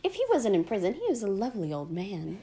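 lightly voiced sweet old lady; a hint of the character's innocent tone; mimicking her. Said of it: "how she was just like".

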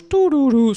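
high sung ding-dong chime; announcement chime. Retold or imitated. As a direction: sing the airport chime high. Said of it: "é sempre tipo".

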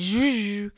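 long buzzy zhuzh sound; stretched-out imitation zhuzh; imitated noise. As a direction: mimic his zhuzh noise. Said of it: "he makes that noise".

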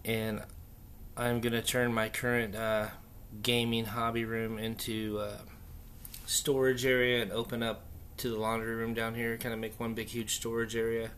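room echo, bare walls; speaking in a half-empty, echoing room; echoey room. Real, not acted. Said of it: "if you hear a little bit of an echo".

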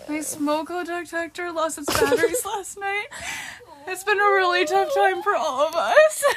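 high mock-tragic whine; mock tragic excuse. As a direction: play a silly excuse as tragedy. Mocking fake excuse.

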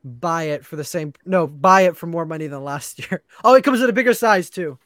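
lightly voiced keynote presenter; a hint of a hyped product reveal; Tim Cook impression. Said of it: "they'll come up with the iPhone fourteen and say".

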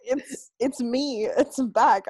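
lightly voiced smug Midwestern guy; a hint of a Midwestern jerk; Midwestern asshole voice. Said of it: "pretending to sound like a Midwestern asshole".

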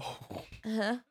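soft, dazed mock "uh-huh"; imitating a blanked-out roommate; vacant agreement. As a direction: answer softly as if nobody's home. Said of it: "lights on, no one home".

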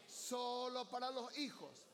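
slow, drawn-out line for the church to repeat. Shown as a demonstration. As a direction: lead the church in saying it back, slowly. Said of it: "Vamos, iglesia".

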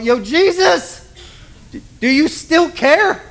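high, urgent cry to a sleeping Jesus; panicked plea. Retold or imitated. Disciples shouting down to sleeping Jesus, panicked high plea. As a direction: play the frightened sailor shouting below deck.

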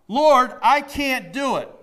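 loud, slow desperate cry to God. Retold or imitated. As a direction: cry it out loud and slowly, at the end of your strength. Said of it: "He cries out".

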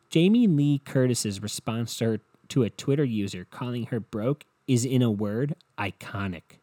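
hammed-up clickbait headline voice; BuzzFeed article read. Mocking BuzzFeed by reading its headline in their style. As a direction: read it like an overexcited listicle. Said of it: "I'll read it like a BuzzFeed article".

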